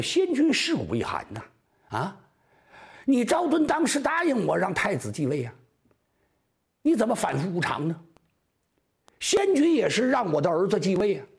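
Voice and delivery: high-pitched tearful pleading; weeping mother begging for her son's throne; crying widow. Acted. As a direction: plead through tears with the chancellor. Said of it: "他这一哭啊".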